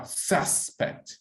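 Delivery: "suspect" slowed, with the marked first syllable stressed. Shown as a demonstration. Teacher shows students the dictionary mark, "suspect" stressed on first syllable. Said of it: "the next syllable have to be marked".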